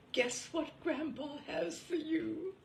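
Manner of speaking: grandpa voice. A narrator's reading. Grandpa voiced in read piece.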